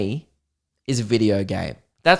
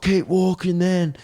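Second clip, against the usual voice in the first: slow, higher, contemptuous mock threat; the boyfriend brushing him off; mock menacing; 6 semitones higher, slower than usual. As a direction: dismiss him with a sneer. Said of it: "he's just like".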